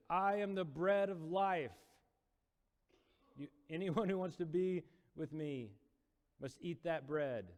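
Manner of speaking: high, loud and slow proclamation; proclaiming Jesus. Retold or imitated. Jesus to the crowd, high slow proclamation. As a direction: declare it slowly like a prophet.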